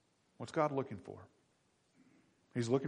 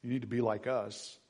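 smug superiority; 4 dB louder than usual. Retold or imitated. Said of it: "not out of".

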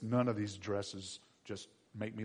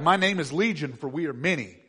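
demon voice; 3 semitones higher, 9 dB louder than usual. Acted. The demons answer Jesus.

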